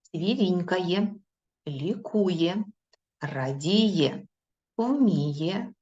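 clear, separated words with pauses; slow dictation reading. Shown as a demonstration. Teacher reading new words to pupils, slow and clear. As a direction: read each word slowly for the class. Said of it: "Зараз я вам їх прочитаю".

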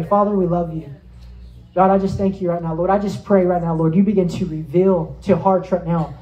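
steady, earnest pastor's prayer; closing prayer. Acted. Pastor praying over the congregation, earnest prayer. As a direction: lead the church gently before God.

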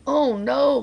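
high, loud cry of dismay; dramatic high-pitched crowd reaction. A narrator's reading. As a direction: cry out in storybook alarm. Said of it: "cried the crowd".

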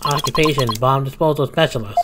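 flat synthesized robot voice. Acted. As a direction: speak like a monotone text-to-speech robot. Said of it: "what a strange robotic voice you have".

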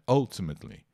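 ultimately said as al-ti-met-li; ultimately with a schwa start and falling tune; teacher modelling ultimately; model pronunciation. Shown as a demonstration. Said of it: "É um schwa ali".

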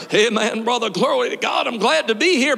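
mock cheery churchgoer hello; put-on church greeting. Pastor mocking churchgoers who hide their storm, mock cheery. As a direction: lightly act out a fake happy greeting. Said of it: "you put on your".

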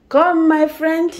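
high, slow sing-song coaxing. Real, not acted. Mother coaxing her daughter, high and slow.

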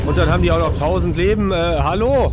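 annoyed complaining. Real, not acted. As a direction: raise your voice in fed-up disbelief. Annoyed at endless enemy health.

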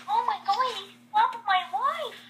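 high, swooping mock outcry; hammed-up shock. Vixen over the slapped wife, high mock shock. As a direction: wail it high, overdramatically.

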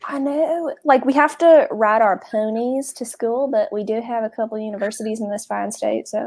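mild, not very good Texas twang; hammed-up Texan accent, half-hearted; put-on Texas accent. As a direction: play up a country Texas accent a little. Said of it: "I wasn't prepared for the fucking accent".

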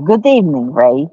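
lightly put-on vampire Russian accent; a touch of Count-style Russian accent. Shown as a demonstration. Streamer greets viewer Ray in mild vampire Russian accent. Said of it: "Or let me say it right".

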